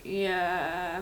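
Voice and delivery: a dragged-out monotone yeah. Shown as a demonstration. Confused character showing her rehearsal line, dragged-out monotone. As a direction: stretch the word out, lost and confused. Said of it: "I'm gonna be very monotone and be like".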